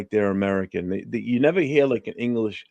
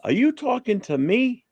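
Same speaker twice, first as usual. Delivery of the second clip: movie tough guy challenging, question swooping up at the end; Robert De Niro; 14 semitones higher than usual. Acted. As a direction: quote the Taxi Driver challenge, pitch climbing. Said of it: "Robert De Niro talking to the mirror".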